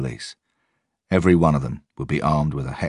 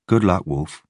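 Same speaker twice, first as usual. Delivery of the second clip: senior officer; 3 semitones higher, 3 dB louder, slower than usual. A narrator's reading. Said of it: "she said".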